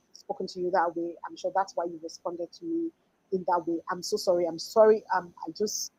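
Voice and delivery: understated, softly contrite quote; acted sincere apology. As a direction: apologise gently and earnestly, as if retelling it. Acting out her apology to someone.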